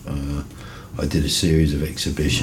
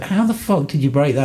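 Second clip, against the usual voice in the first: mock exasperation; 11 semitones higher, 3 dB louder than usual. Retold exasperation at flatmate.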